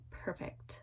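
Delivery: a hushed, breathy perfect; whispered. Retold or imitated. Whispering her delight at the drama to viewers.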